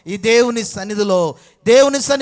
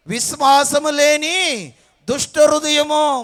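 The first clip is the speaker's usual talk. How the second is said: emphatic shout; 4 semitones higher than usual. Real, not acted. Preacher drills children's answers.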